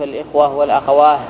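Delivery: والأخواه ending in long aa and h; pause on ha. Shown as a demonstration. Teacher quoting a dialect example, pausing on ha. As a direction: end both الإخوة and والأخواه without a t. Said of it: "جمع المؤنث السالم بالهاء".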